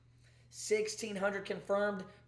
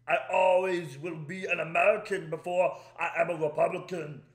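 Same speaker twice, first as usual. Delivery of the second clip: mock Austrian accent, Arnold-style; Arnold Schwarzenegger impression; 5 dB louder than usual. Reading Arnold's post to viewers in a mocking Austrian accent. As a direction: ham up Arnold's Austrian accent, a touch louder. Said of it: "he wrote in social media post".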